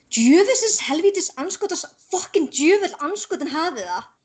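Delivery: furious stream of angry swearing with swooping pitch. Demonstrating the stream of curse words let out when clumsy: angry cursing. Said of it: "That sounds angry".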